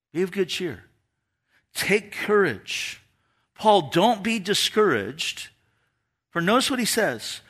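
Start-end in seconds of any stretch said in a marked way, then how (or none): 0.1-5.5 steady a discouraged friend; gentle encouragement. Acted. Jesus shows up to discouraged Paul, gently encouraging. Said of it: "And then Jesus shows up".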